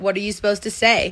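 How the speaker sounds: ordinary delivery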